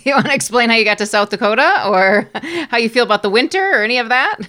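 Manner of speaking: fast, loud laughing question. Real, not acted. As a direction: rush it out while laughing. Laughing through a teasing question.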